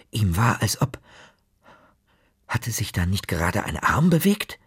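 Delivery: breathless suspenseful whisper; tense whisper. A narrator's reading. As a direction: hold your breath and whisper it. Tense moment, suspicion.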